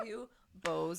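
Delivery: giggling the insult back; laughing. Real, not acted. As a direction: laugh while repeating it. Repeating the mock insult laughing.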